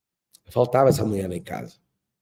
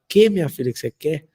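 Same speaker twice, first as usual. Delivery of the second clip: put-on high, loud, doting question to a little girl; doting father; 4 semitones higher, 4 dB louder than usual. Father coaxing his toddler daughter, doting and high. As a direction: coo it to your little daughter.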